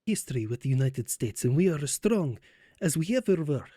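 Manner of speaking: put-on light Polish accent for a statesman. Poland boasting of its bond with the US, in a light Polish accent. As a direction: keep a light Polish accent on every word. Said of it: "oh, that's hard to say in this accent".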